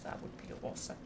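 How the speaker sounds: hushed, delighted whisper. Acted. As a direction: whisper it like a creepy secret. Creepy reaction to snake room.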